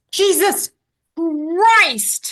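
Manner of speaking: high, loud, drawn-out exclamation; frustrated outburst, acted at high volume; retold yell. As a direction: imitate an exasperated witness yelling, stretching each word. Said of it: "he yells".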